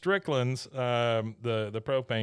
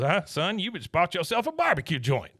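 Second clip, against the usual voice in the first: higher-pitched Southern boss voice; Buck; 6 semitones higher than usual. Retold or imitated. Boss to employee handing over money, high drawling voice. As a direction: imitate a boss announcing a deal, pitched up. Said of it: "He goes".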